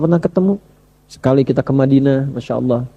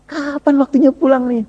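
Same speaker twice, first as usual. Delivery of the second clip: longing; 8 semitones higher than usual. Retold or imitated. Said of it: "Udah rindu".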